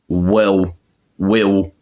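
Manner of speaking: "will" ending in a w sound; Cockney pronunciation. Shown as a demonstration. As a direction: say "will" without touching the L. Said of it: "that's how they say it".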